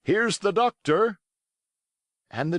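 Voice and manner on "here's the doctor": high, loud hail from a distance; doctor hailing the blockhouse from the wood's edge, calling loudly. A narrator's reading. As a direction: call across to the blockhouse. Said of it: "it cried".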